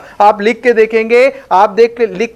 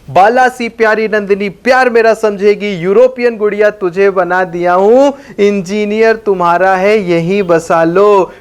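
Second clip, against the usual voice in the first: quick jingle recital. Shown as a demonstration. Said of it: "पूरा jingle मैं फटाफट बोल रहा हूं".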